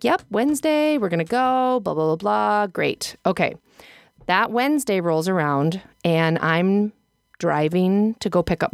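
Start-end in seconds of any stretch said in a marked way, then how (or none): 0.0-2.7 sing-through, higher at the start; breezy retelling. Retold or imitated. Mom agreeing to the Wednesday plan, breezy. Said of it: "And I was like".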